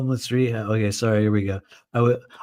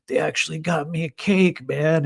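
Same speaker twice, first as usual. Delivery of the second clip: higher, happy mock boast; mild stoked imitation; 5 semitones higher than usual. Narrator voicing coworker proud of his birthday cake, lightly excited. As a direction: brag about the cake like a kid.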